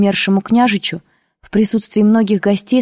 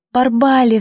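high-pitched narrated outcry; crying out; 5 semitones higher than usual. A narrator's reading. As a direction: call out to the old nurse in distress. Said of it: "вскричала я". (взволнованный вскрик)

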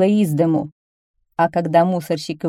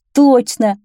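loud, higher eager agreement; joining in; 6 semitones higher, 8 dB louder than usual. A narrator's reading. Others agreeing with the delighted child, chiming in. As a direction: chime in with a raised voice. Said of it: "подхватили другие".

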